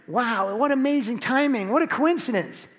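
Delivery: high-pitched feigned wonder; mock amazement. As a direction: act amazed, as if by coincidence.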